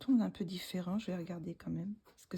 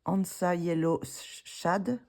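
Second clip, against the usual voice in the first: French-accented English; 6 dB louder, slower than usual. Real, not acted. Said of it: "avec mon accent".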